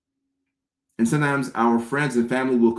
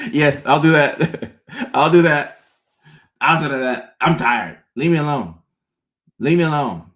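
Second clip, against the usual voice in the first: laughing eager yes; 3 semitones higher, 4 dB louder than usual. Retold or imitated.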